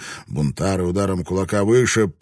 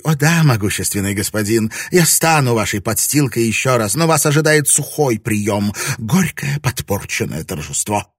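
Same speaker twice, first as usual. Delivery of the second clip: mocking; 5 semitones higher, 5 dB louder than usual. A narrator's reading. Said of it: "издевательский смех, пронзительный и злобный".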